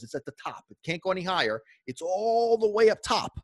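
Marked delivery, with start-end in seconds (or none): 1.9-3.4 building shout. Acted. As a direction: shout it as it peaks. Excitement built to the top.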